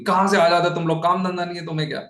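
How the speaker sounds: mock scolding, brushing them off; a hint of a cranky scold; scolding snap. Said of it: "डांट के बोलेगी".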